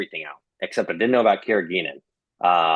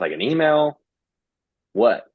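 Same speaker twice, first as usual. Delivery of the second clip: baffled coworker; 5 semitones higher than usual. Retold or imitated. Coworker baffled by request for help.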